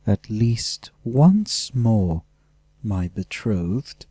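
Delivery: very slow, mocking sneer; nasty. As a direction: savour the insult, dragging each word. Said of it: "Axemis said nastily".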